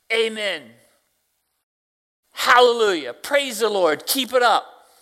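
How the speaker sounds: high, joyful retold praise; jubilant. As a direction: cheer her on. Preacher's cheering reply retold.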